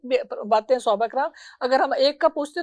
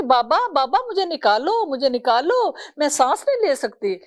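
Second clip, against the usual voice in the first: put-on desperate child's plea; 3 semitones higher than usual. Buried girl begging her father to free her, pleading. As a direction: beg your father to pull you out of the earth. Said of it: "بیچاری نے اپنا ہاتھ نکالا مٹی سے اور کہا کہ".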